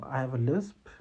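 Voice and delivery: plain, steady "I have a lisp", owned without shame; matter-of-fact, self-assured "I have a lisp"; confident. Shown as a demonstration. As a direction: state "I have a lisp" calmly and firmly. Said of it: "Tell them".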